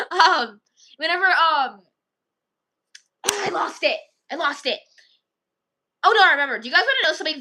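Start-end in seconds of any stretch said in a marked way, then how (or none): 0.1-4.8 giggling through the words; laughing. Real, not acted. Vlogger cracking up and losing her train of thought. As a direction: lose it laughing mid-sentence.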